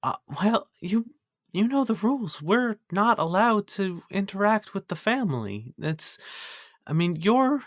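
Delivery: a timid servant who fears losing her job; nervous halfling cook. Acted. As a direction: cook Isabella pleading with the boy, high and hushed.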